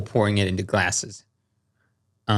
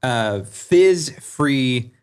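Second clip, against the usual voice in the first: ad read; slower than usual. Acted. Sponsor read for Celsius.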